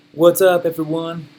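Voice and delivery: low, very slow, soft monotone; garbage low-energy delivery. Retold or imitated. Speaker imitating his earliest podcast episodes, dull low-energy drone. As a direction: drag it out lifelessly with halting ums. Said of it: "My delivery was garbage".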